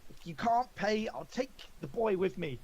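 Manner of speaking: put-on voice of a threatening pastry woman; pastry seller's threat. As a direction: play a sinister peddler naming her price. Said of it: "she says".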